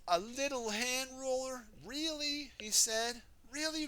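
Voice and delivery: high, offended roller voice; indignant Rolly. Acted. Rolly protesting to Wendy, high and offended. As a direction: protest that you're the flattener.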